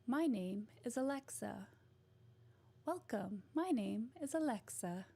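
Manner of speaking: even, mechanical assistant voice; robot voice. Acted. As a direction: read it like a polite smart-home AI. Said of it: "It's like a robot voice".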